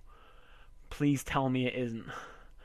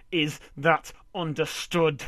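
louder and slower, pressing every word; loud repeated demand; 2 semitones higher, 6 dB louder, slower than usual. Acted. Husband repeating an order to his wife, loud. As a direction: repeat it as a threat, slowly. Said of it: "I said".

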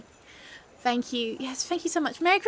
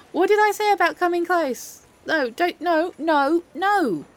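higher, louder telling-off; indignant, raised-voice protest; alarmed scolding; 6 semitones higher, 4 dB louder than usual. Acted. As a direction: warn them off, exasperated. Warding off friend coming close.

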